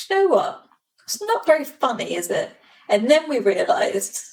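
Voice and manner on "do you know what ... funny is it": unimpressed. Retold or imitated. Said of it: "Harry and I were like".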